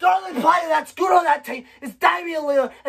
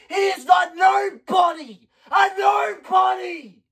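slow, raised, angry shout; furious shout; 3 semitones higher, slower than usual. Real, not acted. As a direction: spit out each word slowly in disgust. Furious fan rant.

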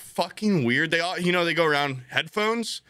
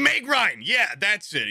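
triumphant recall; 5 semitones higher, slower than usual. Retold or imitated. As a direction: land the name like a win. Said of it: "I'm like".

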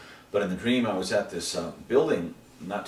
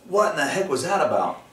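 loud, high startled question; imitating a stunned awakening; acted bewilderment; 9 semitones higher, 7 dB louder than usual. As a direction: blurt it out, baffled. Voices himself waking up bewildered.

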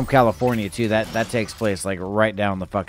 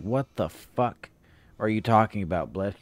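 drawn-out, baffled mock retort, softer; slow confused retort; 2 semitones lower, 4 dB quieter than usual. Retelling the streamer's baffled reply, drawn out slowly. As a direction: stretch it out like a puzzled friend. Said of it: "she's just like".

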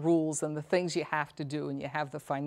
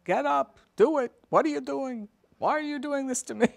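high, loud exasperated shout at a parent; overwhelmed caregiver snapping, loud and high; frustrated yelling; 9 semitones higher, 4 dB louder than usual. Acted. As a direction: let the frustration burst out at them. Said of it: "you're probably yelling at them".

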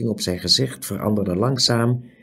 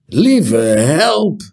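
high, loud startled exclamation; startled cry; 6 semitones higher, 6 dB louder than usual. A narrator's reading. Startled cry. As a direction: innkeeper gasps in shock at Tiuri's state. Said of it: "riep de waard".

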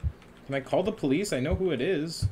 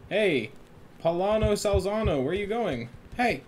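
calling out; 5 semitones higher than usual. Pretend. Clerk calling after the guest, raised voice calling out. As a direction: call him back across the lobby.

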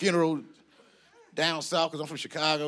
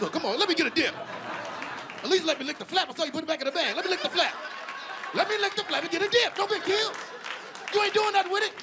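high, insistent begging for a bite; desperate comic plea, much higher than usual; pleading; 12 semitones higher than usual. Retold or imitated. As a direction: wheedle in a raised, climbing pitch. Acted begging for a dip.

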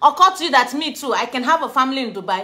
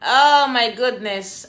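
slow louder exclaim; 3 dB louder, much slower than usual. Real, not acted. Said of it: "repeated exclamation".

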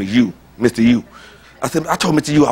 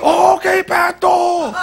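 lightly voiced cleaner; slower than usual. Voicing the cleaner's reply.

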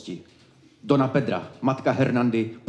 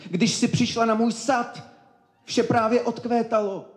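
wooing lover; 10 semitones higher than usual. Acted. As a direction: recite love lines high and lingering. Karel continues wooing in verse.

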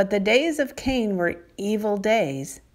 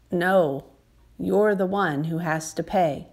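angry father; 2 semitones lower than usual. Acted. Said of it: "like a very angry father".

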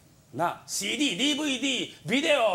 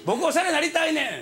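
eager plea; 6 semitones higher than usual. Retold or imitated. Repeated eager request.

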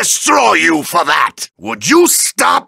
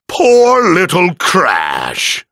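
mock pity; 2 semitones lower, much slower than usual. Villain mocks his beaten foe.

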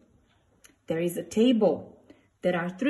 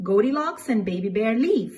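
usual speaking voice

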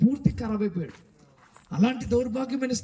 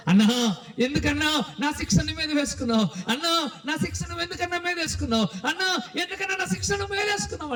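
anguished plea climbing higher; acted crying lament; 7 semitones higher than usual. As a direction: wail the question in retold grief. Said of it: "అని ఏడుస్తూ ఉంటే". (ఏడుస్తూ ప్రాధేయపడుతున్నట్టు, పెరుగుతున్న స్వరంతో)

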